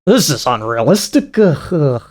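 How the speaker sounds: lightly voiced grunting caveman; mock caveman. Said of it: "stupid caveman of a man".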